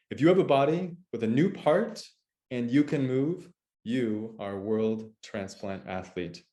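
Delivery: measured, deliberate host introduction; podcast intro read. Real, not acted. Host opening a show for transplant athletes, scripted intro read. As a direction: welcome listeners with punchy, spaced-out phrasing.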